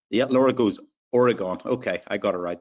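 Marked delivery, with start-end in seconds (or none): 1.1-1.6 Oregon in an Irish accent. Real, not acted. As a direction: say the place name with an Irish accent. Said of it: "That's my Irish accent".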